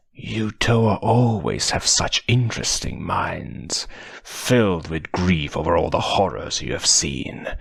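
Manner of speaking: menacing whisper. Acted. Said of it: "Mutran whispered".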